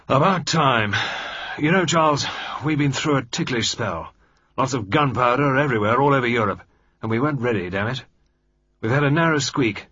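gruff relief blurted out in a hearty rush; Sir George voice. Acted. Sir George confiding his worries to Lord Mayfield, bluff and loud.

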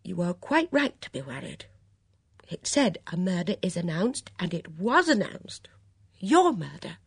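high, worked-up distress; trembling, near tears. A narrator's reading. Dora frets over her friend's near murder, upset. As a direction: build to an anxious, high-pitched outburst. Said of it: "trembling as she spoke".

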